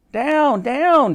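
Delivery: high, urgent double shout. A narrator's reading. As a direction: call up to the gang. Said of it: "shouted the girl to her friends".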